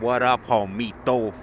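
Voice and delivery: "What up, homito?" drawn out slowly; slow greeting. Shown as a demonstration. Showing viewers how to greet a little homie, slow and relaxed. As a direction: lay it out slow and easy for the viewers. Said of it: "Be like".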